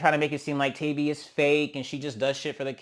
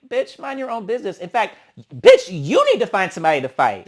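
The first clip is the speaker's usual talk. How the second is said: mock telling-off; 4 semitones higher, 7 dB louder than usual. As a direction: snap it at Pretty P like a sassy scold. Telling Pretty P off.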